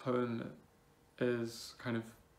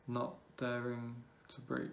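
measured poem reading with long pauses between phrases; spaced-out, deliberate poetry recital. Acted. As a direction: recite it line by line, letting each phrase hang. Reads own poem aloud.

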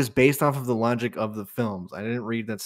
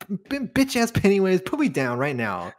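high, louder irritated mock rant at Pennywise; fed-up yelling; 7 semitones higher, 3 dB louder than usual. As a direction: snap at the clown like an annoyed roommate. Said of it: "you just go".

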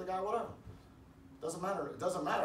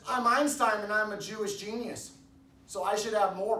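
higher, louder mock bragging; mock boasting; 6 semitones higher, 5 dB louder than usual. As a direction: play a self-important boaster, raised voice. Acted boaster claiming superiority.

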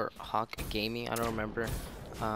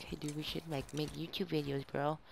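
casual bro voice; 5 semitones higher, 5 dB quieter than usual. Retold or imitated. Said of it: "So we're like".

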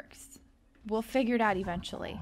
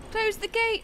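high, louder hurried command; urgent high-pitched order; urgent panic; 12 semitones higher, 5 dB louder than usual. Real, not acted. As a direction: raise the pitch in mild panic. Rushing to shut the gate.

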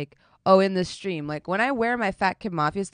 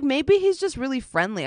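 mimicking Brownie; 5 semitones higher than usual. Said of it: "And she was like".

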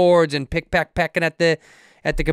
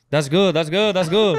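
lightly put-on villager voice, laughing; mock villagers cheering; 4 semitones higher than usual. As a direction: cheer it like an approving crowd. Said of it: "The whole village was like".

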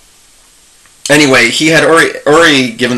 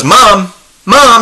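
high, louder retold call of "Mom"; yelling into the phone; 8 semitones higher, 3 dB louder than usual. Wife yelling to mother-in-law still on the line. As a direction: call out sharply to get her attention. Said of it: "she starts yelling on the phone".

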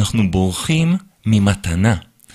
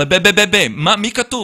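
mocking stammer; 8 semitones higher, 4 dB louder, slower than usual. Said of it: "אמרתי לו".

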